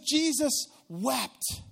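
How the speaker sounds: "Jesus wept" drawn out very slowly, each word weighted; slow solemn reading. Shown as a demonstration. Pastor reads the short verse aloud to the church, slow and solemn. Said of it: "it says".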